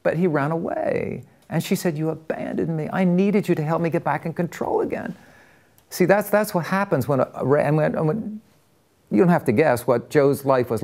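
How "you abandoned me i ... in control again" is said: retold desperation. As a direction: imitate the wife's desperate reproach. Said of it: "with these just desperation, a woman".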